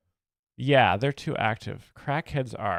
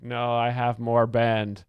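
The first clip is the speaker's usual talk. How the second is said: dying heroin addict; 4 dB louder, slower than usual. Retold or imitated. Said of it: "an impression of a heroin addict actively dying".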